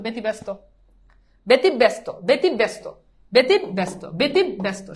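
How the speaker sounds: ব্যতিব্যস্ত said as বেতিবেস্ত, repeated clearly; pronunciation demo. Shown as a demonstration. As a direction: model ব্যতিব্যস্ত slowly as বেতিবেস্ত for students. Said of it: "এটার উচ্চারণ তুমি এমনি normal উচ্চারণ". (উচ্চারণ দেখানো: ব্যতিব্যস্ত বলো বেতিবেস্ত)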